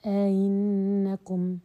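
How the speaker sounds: teacher sounding out the eased hamza; eased second hamza. Shown as a demonstration. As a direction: stretch أئنكم and soften its kasra hamza. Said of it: "آه".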